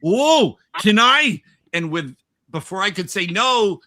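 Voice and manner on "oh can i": loud, high-pitched eager request; gushing woman. Retold or imitated. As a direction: imitate a wide-eyed, overexcited woman. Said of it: "with her eyes wide and goes".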